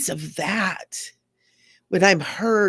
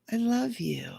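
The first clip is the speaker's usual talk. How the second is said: whispered I love you; tender whisper; 4 semitones higher, 5 dB quieter than usual. Real, not acted. Whispering love to her own hurt feelings. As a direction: breathe it softly as a whisper.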